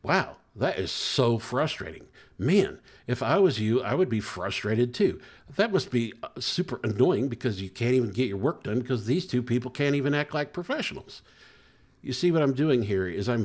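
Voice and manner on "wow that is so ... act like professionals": validating reply. Shown as a demonstration. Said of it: "to say is something like this".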